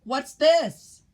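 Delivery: high, loud pirate shout; loud high shouted question; angry shout. A narrator's reading. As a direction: bellow it out like a startled pirate captain. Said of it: "he shouted".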